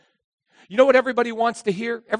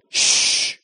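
unvoiced hiss for silence; sharp whispered shh; hushing shh; 3 dB louder than usual. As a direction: hush someone while hiding. Hiding hush.

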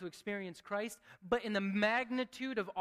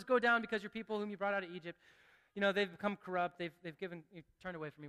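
flat offhand reading; 3 semitones lower, faster than usual. Shown as a demonstration. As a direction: rattle it off like it doesn't matter. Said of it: "we could just read it and say".

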